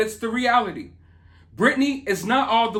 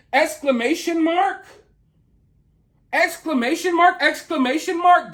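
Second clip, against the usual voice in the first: mock wonder, higher and louder; sarcastic; 9 semitones higher, 3 dB louder than usual. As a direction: ham up the fake excitement. Mocking exclamation mark.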